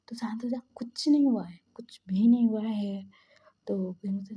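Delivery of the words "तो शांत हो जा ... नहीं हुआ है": emphatic comforting, growing louder; firm reassurance. Retold or imitated. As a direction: insist gently that all is well. Comforting the panicking one while carrying.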